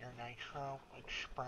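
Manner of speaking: pinched nasal voice, nose held shut. Pretend. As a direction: talk while pinching your nose. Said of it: "I can also hold my nose for you".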